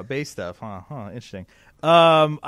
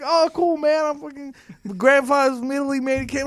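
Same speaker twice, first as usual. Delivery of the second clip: higher, louder, chummy New York guy voice; imitating the rep's voice; 9 semitones higher, 4 dB louder than usual. Salesman calling a customer, higher louder guy voice. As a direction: play the pushy sales rep, up and loud. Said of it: "You do that voice perfectly".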